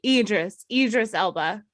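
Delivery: long E opening "Idris"; "Idris" starting with a clear EE; corrected pronunciation. Shown as a demonstration. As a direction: say Idris as EE-dris. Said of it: "it starts with an E".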